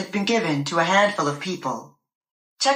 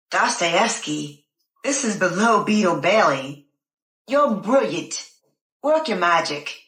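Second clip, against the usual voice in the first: put-on British accent; slower than usual. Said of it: "In his wonderful British accent".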